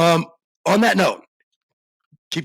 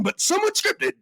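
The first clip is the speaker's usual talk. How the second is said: 1930s announcer. Acted. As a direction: belt out somewhat scripted. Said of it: "nineteen thirties announcers".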